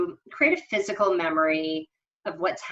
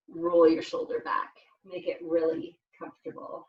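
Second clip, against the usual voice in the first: talking with a whistling nose; nose whistles on the breath. Real, not acted. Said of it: "My nose is whistling".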